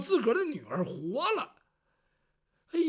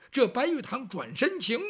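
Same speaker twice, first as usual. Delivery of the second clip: ordinary delivery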